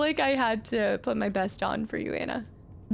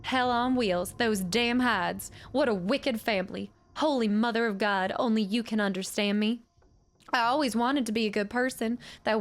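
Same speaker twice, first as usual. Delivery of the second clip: a lightly voiced old widow, bitter. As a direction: curse the Hydes as the old widow.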